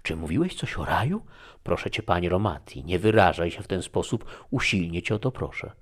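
loud and fast, begging in alarm; frightened pleading. Acted. Young woman begs her guest not to speak so, frightened and pleading. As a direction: plead urgently, almost despairing. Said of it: "przerażona i prawie z rozpaczą".

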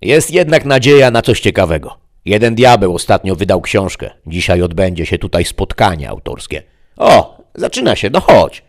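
high, loud, indignant demon voice; a pompous demon scoffing at modern books; fat grumbling demon. Acted. Fat demon speaks again.

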